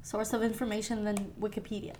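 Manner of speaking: talking between sips of tea; words around a straw in the mouth; while sipping a drink. Real, not acted. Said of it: "I'm just drinking my bubble tea".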